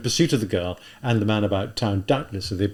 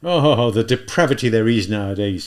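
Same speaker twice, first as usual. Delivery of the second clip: sighing lament; 7 dB louder than usual. Acted. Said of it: "he said again, out loud, sighing".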